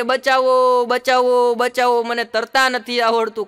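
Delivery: a drowning man calling to his friend on the bank; calling for help. Retold or imitated. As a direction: shout it like you're drowning. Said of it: "ડૂબવા માંડ્યો".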